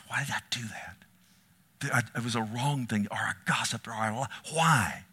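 whispered self-reproach; anguished whisper. Retold or imitated. Believer asking himself why he sinned, whispered. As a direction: breathe it to yourself in shame. Believer laments own sin.

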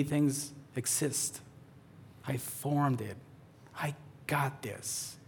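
slow down and reassure gently; slow reassurance. Retold or imitated. Voicing the Lord, slow and soft.

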